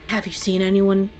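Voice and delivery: lightly voiced gruff guard; rough questioning. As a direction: ask with a touch of roughness. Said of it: "a voice ask very roughly".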